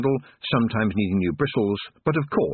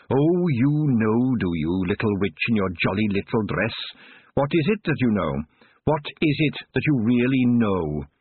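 mocking witch; 3 semitones higher than usual. Old witch taunting young Tiffany, sly and mocking. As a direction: toy with the girl like a wicked witch.

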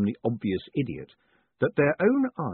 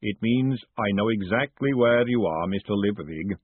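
golem voice; 2 semitones lower than usual. Acted. Golem answers Moist.

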